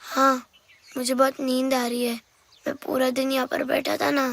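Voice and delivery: mildly drowsy, a little subdued; as if nodding off; a touch of tiredness in the voice; sleepy. Acted. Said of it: "तुम तो सोए जा रहे हो".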